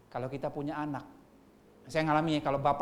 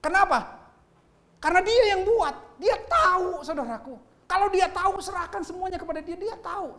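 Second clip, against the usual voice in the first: high, loud preacher's cry; raised pulpit voice, full force; fiery preaching; 13 semitones higher, 7 dB louder than usual. Acted. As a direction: preach it hard to the congregation.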